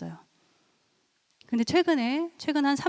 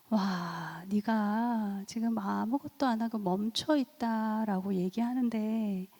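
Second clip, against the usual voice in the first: counsellor's empathy; 4 dB quieter, slower than usual. Retold or imitated. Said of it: "전 되게 훌륭한 상담자예요".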